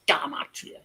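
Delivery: Gematria whispered, ge-MAH-tree-uh; whispered correct pronunciation. Shown as a demonstration. Streamer finally whispering the right way to say it. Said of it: "it's actually".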